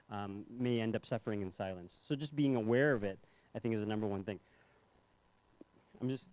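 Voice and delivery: talking around a mint; words round a mint in the mouth; mouth full. Real, not acted. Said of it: "sorry, I have mint in my mouth".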